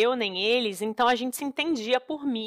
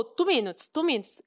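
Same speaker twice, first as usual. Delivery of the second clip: put-on Indian taxi driver accent; 4 semitones higher than usual. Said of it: "e o cara falou".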